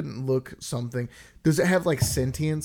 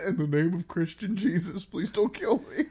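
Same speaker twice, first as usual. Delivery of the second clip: giggly pleading Bigfoot; laughing mock plea; 5 semitones higher than usual. Friend voices Bigfoot begging not to be killed, laughing. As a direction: beg for mercy while laughing.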